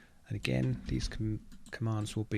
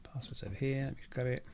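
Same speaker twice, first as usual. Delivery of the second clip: whispered; 3 semitones higher, 4 dB quieter than usual. Real, not acted. Muttering while looking for password.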